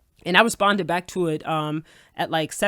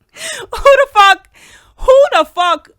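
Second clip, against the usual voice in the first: high, loud incredulous outburst; outraged; 9 dB louder, much slower than usual. Real, not acted. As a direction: blurt it out in loud disbelief. Outraged at the accusation.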